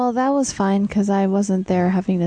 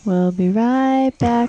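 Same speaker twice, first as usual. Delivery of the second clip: announcer voice; 4 semitones higher, slower than usual. Pretend. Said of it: "jokingly doing a break announcement".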